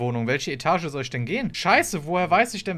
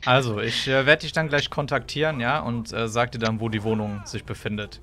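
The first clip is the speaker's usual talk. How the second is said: sleazy suitor voice; 5 semitones lower than usual. Acted. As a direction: play the creepy client low. (schmieriger Freier)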